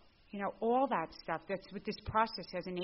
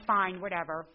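flip attitude; 5 dB louder than usual. Retold or imitated. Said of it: "with my flip attitude".

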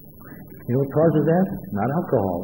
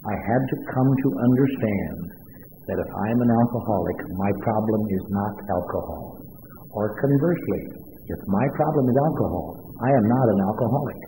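slow and soft, each word weighed; slow, quiet, deliberate delivery; very slowly; 4 semitones lower, 4 dB quieter than usual. Real, not acted. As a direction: lay it out slowly so it sinks in. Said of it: "I want to say it very slowly".

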